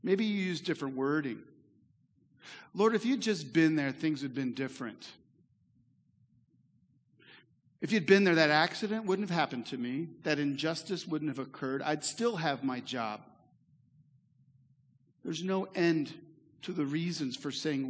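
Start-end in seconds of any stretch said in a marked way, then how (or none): 2.7-13.2 complaining to God. Retold or imitated. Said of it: "Have you ever said that to God".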